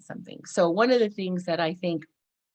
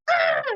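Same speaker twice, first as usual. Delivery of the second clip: sudden high exasperated cry; frustrated outburst cry; 6 dB louder than usual. Retold or imitated. Person with emotional outbursts crying out, exasperated. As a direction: let out a short yelp of overwhelm. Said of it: "you're like".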